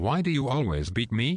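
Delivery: mock very loud delivery. Retelling asking Mom a question in a busy cafe: imitating a very loud question. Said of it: "very loudly asked Mommy".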